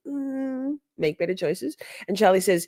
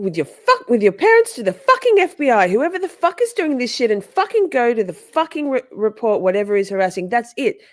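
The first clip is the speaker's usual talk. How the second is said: much higher, louder mock tirade; hammed-up screeching caller; mocking Katie; 7 semitones higher, 6 dB louder than usual. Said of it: "Katie says".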